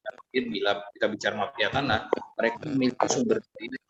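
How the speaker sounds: choppy connection, words dropping out; bad online call audio; voice breaking up. Real, not acted. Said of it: "putus, Ketua".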